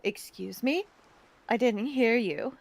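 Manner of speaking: low, soft, gently puzzled question; kind, slightly hoarse. A narrator's reading. Game character asks a beggar to repeat, kind soft voice. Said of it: "Her voice is kind, a little hoarse from the wind".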